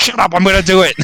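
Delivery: put-on irritated yell. Describing trying to tame a cat in a game, retelling a yell. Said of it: "I'm just yelling at him like".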